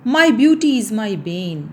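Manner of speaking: grandly. Retold or imitated. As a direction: declaim it like a proud stage heroine. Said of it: "I said grandly".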